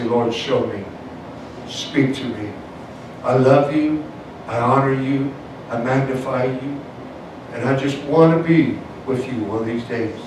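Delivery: low, soft prayer voice; heartfelt prayer. Shown as a demonstration. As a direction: pray it quietly and tenderly to the Lord. Models a prayer to the Lord.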